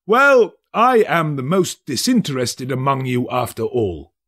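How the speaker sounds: a self-satisfied merchant; pompous merchant. A narrator's reading. First merchant speaks.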